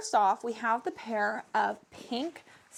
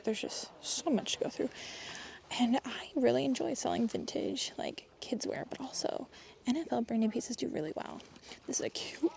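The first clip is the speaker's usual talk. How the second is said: whispering; 6 dB quieter than usual. Real, not acted. Filming quietly inside the thrift store.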